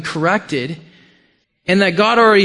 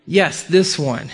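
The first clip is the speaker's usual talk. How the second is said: slow, settled confirmation; measured reply, dropping at the end; assured answer; 3 semitones lower, slower than usual. Acted. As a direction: confirm it slowly and surely. Answer to Samuel's doubting question.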